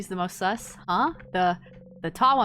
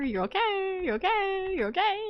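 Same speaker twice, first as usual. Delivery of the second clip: higher, breaking, on the verge of tears; tearful; 10 semitones higher than usual. Acted. Siffrin telling themself they are okay, voice breaking with tears. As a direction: reassure yourself through tears. Crying self-reassurance.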